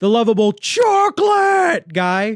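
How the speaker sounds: blaring, loud shout, high-pitched and slow. Showing the other speaker how a line was said, loud burst into the mic. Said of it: "did I just blow out the mic?".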